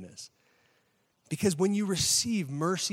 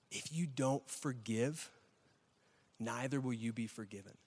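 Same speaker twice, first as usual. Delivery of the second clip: quiet intensity; 4 semitones lower, 8 dB quieter than usual. Acted. Preacher quoting how Jesus ends the story, quiet intensity. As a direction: let each word land softly and gravely. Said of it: "the intensity of this moment".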